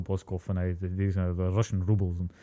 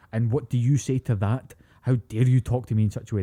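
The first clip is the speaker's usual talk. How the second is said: put-on indignant Scottish elf accent; 4 dB louder than usual. Mocking an elf character's Scottish voice, indignant Scottish accent. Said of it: "the most inconsistent Scottish accent".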